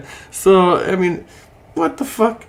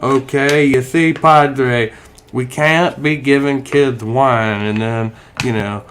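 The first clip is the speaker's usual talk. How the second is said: mock Southern evangelical accent, lightly done; evangelical Southerner voice. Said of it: "I know I'm doing my evangelical Southerner voice".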